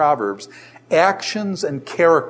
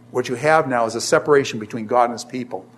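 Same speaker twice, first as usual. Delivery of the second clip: quick, dropped-down restatement of "What you have now is a separation between God and his people."; quick repeat; 4 semitones lower, faster than usual. Shown as a demonstration.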